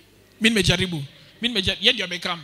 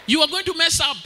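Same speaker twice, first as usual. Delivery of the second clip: stern warning shout; 6 semitones higher, 6 dB louder than usual. Retold or imitated. Girl warns him sternly.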